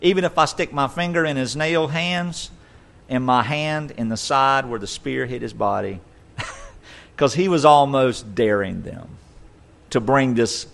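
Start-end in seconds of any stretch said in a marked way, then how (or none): 0.0-6.0 sarcastic. Retold or imitated.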